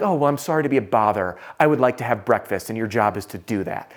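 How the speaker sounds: lightly sarcastic retold complaint; imagined grumpy retort, sinking at the end; slight attitude. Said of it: "slight bit of attitude and frustration".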